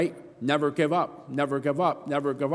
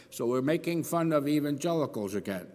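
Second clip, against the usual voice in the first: wry laugh; 4 dB quieter than usual. Real, not acted. Mocking the newspaper articles.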